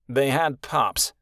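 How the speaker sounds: slow, bored and uncaring; disinterested. Acted. Winter dismisses the orphaned pups, bored. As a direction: shrug the words off, slowly. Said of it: "he said with disinterest".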